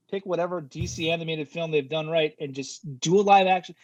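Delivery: impassioned, high-pitched rant; fired up. Real, not acted. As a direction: argue it heatedly, pitch climbing as you go. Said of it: "I get fired up".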